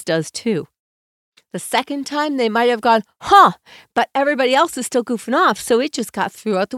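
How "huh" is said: huh. Retold or imitated. Kid half hearing call.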